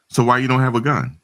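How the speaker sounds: high, baffled question, mildly imitating the locals; surprised question. Locals baffled that he owns no gun, high and surprised. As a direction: ask it like you can't believe it. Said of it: "they were really surprised about that".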